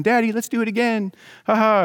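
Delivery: high-pitched imitation of a delighted little boy; gleeful child. Young son begging dad for another catch, imitated gleefully. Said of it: "he's laughing like it's the best thing".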